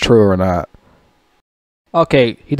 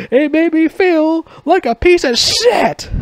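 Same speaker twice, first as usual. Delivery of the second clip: high, slow words squeezed out through laughter; can barely get it out for laughing; slower than usual. Real, not acted. Laughing hard while quoting the toothpaste bit.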